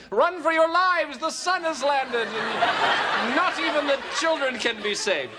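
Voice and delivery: high-pitched doomsday wail, played for laughs; mock panic. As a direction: raise a hammed-up alarm, slowly and high. Imagined panic at sun on land.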